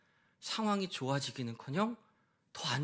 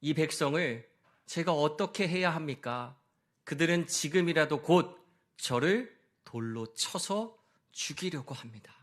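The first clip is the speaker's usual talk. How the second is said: anxious cry to God. Retold or imitated. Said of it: "주님께 부르짖었습니다".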